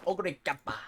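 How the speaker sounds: "Ogre kappa" with a popped, punched "kappa"; emphasis on CAP. Retold or imitated. Quoting Cinderella Grey's call, "Ogre kappa" stressed on "kap". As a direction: mimic the anime, exploding the "kap" in "kappa". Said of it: "extra emphasis on, like, the cap".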